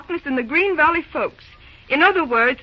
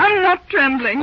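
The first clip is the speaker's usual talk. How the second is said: defiant denial; 5 dB louder than usual. Acted. Carrie denies trembling after quarrel.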